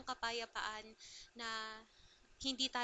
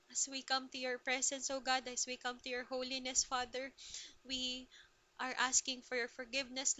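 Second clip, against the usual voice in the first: prayer. Acted. Leads the closing prayer.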